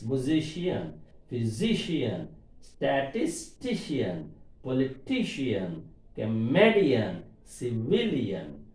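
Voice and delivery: "Musician" to "civilian", slowly, stressing SI, SI, TI, TI, ME, VIL; stress before the suffix. Shown as a demonstration. Teacher listing examples, slow stress before each suffix, "Musician" to "civilian". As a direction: lean on the syllable before each ending from "Musician" on. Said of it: "suffix before syllable we have to stress".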